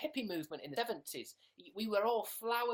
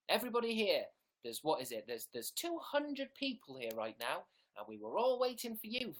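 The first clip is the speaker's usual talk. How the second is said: mock scolding. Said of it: "I'm just playing a character".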